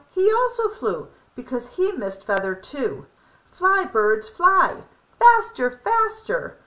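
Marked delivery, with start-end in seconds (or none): 3.5-6.6 high, rising urgent calls; urging on. A narrator's reading. Lolly urges the birds after her feather, high and eager. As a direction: cheer the birds on faster and faster.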